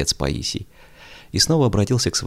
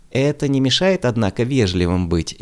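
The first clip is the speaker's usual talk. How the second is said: insistent; 6 semitones higher, 3 dB louder than usual. A narrator's reading. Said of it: "не унималась".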